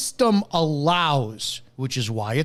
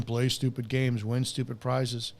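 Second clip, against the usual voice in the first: softer, smug sneering quote; mocking commenters; 3 semitones lower, 6 dB quieter than usual. Mocking smug comment-section posters, sneering. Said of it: "who are in the comments section".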